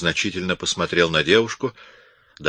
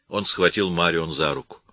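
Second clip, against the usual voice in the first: ordinary delivery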